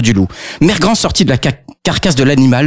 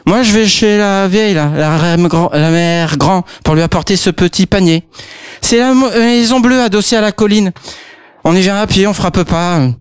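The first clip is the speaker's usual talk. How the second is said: put-on raised, slurred little girl; tipsy girl voice; 6 semitones higher than usual. Drunk girl chatting to the wolf, raised voice. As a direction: slur it like a drunk kid.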